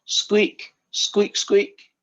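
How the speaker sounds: high squeaky little cries; squirrel imitation. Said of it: "he goes".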